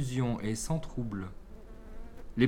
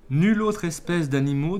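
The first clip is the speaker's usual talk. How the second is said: higher, louder proclamation; proud oratory; 6 semitones higher, 8 dB louder than usual. A narrator's reading. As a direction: launch the speech like an advocate. Bee ambassador pleads before Jupiter. (plaidoirie fière, voix haute et forte)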